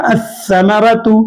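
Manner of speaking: अस्समरतु drawn out slowly with the doubled स held; slow recitation. Shown as a demonstration. Teacher slowly models अस्समरतु for students. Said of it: "हुर्फ शमसी को तजदीद देकर पढ़ा जाएगा".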